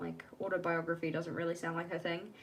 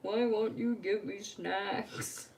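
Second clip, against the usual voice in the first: put-on whiny kid asking mum; 4 semitones higher, much slower than usual. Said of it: "And I'm like".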